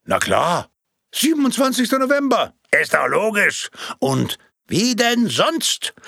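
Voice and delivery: high, eager it's-obvious murmurs; as if it was obvious all along; smug crowd murmur. Acted. Audience chimes in with smug agreement, high. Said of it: "dem allgemeinen Gemurmel".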